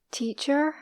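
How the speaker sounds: TEACHER ending in a sounded American R; imperfect American teacher, R curled at the end; American rhotic R. Shown as a demonstration. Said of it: "don't do the American accent perfectly".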